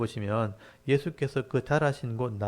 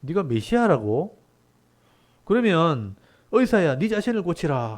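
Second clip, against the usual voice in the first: incredulous jeer from a doubting crowd; mocking challenge; 4 semitones higher, 4 dB louder than usual. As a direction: draw it out as a sarcastic dare. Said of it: "조금 비웃듯이 말하는 거예요".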